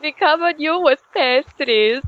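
high, lilting fake Scandinavian accent; mock Scandinavian accent. Playing a Swede bringing pastries, in a mock Scandinavian accent. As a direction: put on a silly Scandinavian accent. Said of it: "do more impressions".

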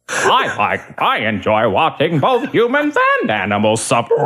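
hammed-up cartoon villain; villain voice breaking into laughter; Krang. Shown as a demonstration. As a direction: gloat like a cartoon brain alien. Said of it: "in the Krang impression".

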